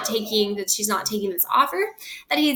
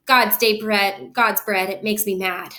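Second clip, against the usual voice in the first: angry father. Acted. Capulet's long rant.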